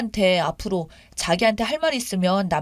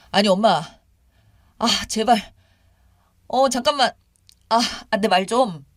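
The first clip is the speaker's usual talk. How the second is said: lightly acted exasperated son; pleading husband. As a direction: try to get a word in. Husband tries to interrupt his mother.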